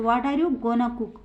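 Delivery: slow, clear example for students; teacher reading it out slowly to the class; slow model sentence. Shown as a demonstration. Teacher models the sentence, slow and clear. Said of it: "चौथा example है".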